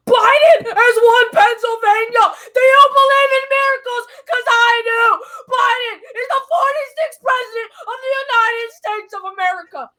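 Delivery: a hammed-up announcer screaming the big win; ecstatic sportscaster yell. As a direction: call it like a miracle finish. Mock sportscaster calling a miracle.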